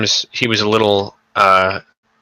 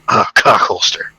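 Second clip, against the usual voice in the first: mock soldier mutter; slower than usual. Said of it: "like, whisper".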